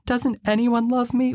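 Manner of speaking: high, slow, tearful wail; mock crying out the question; tearful plea. Retelling the sister's tearful plea, high and slow. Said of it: "she goes".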